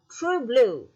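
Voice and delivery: "true blue" with TRUE and BLUE equally weighted; equal stress. Shown as a demonstration. Teacher showing a spondee example, equal stress on "true blue". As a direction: give both words of "true blue" full stress. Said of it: "two words are stressed equally".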